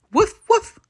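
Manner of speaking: high, loud playful woof; dog barks. Acted. Webby the dog agrees, barking high and loud. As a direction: bark like a little dog. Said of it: "Webby barks".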